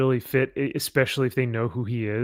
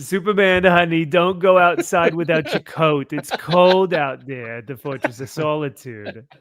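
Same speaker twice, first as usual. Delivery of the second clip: Jewish mother; 4 dB louder than usual. Acted. Nagging Jewish mother bit.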